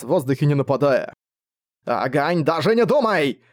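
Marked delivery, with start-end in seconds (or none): 1.8-3.4 warning shout, rising high on the threat; a furious master yelling at his dragon. A narrator's reading. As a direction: cut him off in fury. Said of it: "яростно заорал Джарнак".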